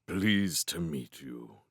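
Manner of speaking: slow, low kingly voice; genial king. A narrator's reading. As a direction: greet a child slowly in a low royal voice. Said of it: "the king asked genially".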